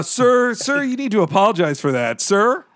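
fussy polite scolding; mock polite.

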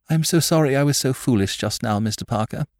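lightly voiced young woman, confiding; charming frankness. A narrator's reading. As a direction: apologise with gentle charm. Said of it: "with a charming frankness and confidence".

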